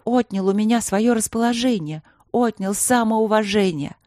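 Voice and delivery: queen reproaching the king for her lost love; wounded queen. Acted. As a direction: lay out every betrayal.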